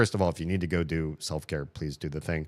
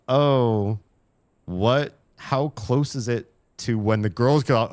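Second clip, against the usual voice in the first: retold panic; 5 semitones higher, 5 dB louder, slower than usual. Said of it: "I was like".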